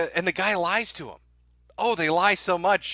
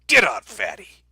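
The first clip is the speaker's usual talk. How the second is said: mock taxi driver yell; 7 dB louder than usual.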